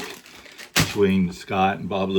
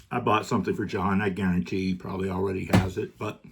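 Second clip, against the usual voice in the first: chewing candy while talking; mouth full. Real, not acted. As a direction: talk around a mouthful. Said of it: "sorry I'm eating it".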